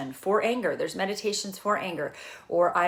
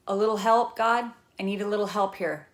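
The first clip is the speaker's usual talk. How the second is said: casual plea, pitched up; simple prayer; 3 semitones higher than usual. Acted. Speaker shows how simply one can pray, casually pleading. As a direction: lightly call upward for a hand. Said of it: "sometimes my prayers are this simple".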